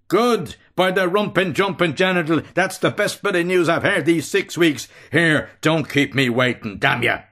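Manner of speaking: hearty brutal shout. A narrator's reading. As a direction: bellow with cruel delight. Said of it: "Bello shouts".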